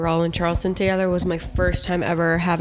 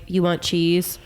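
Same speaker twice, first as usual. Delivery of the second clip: put-on baby talk; 2 semitones lower, much slower than usual. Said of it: "you don't want to literally be like".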